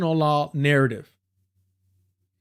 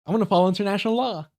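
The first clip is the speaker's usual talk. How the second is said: higher, fast mock quote; mocking Mamdani; 5 semitones higher, faster than usual. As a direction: toss off his line in quick parody. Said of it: "But Mamdani said".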